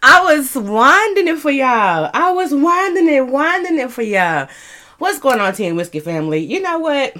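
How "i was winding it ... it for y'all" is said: breathless after dancing; panting between words; out of breath. Real, not acted. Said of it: "As I catch my breath".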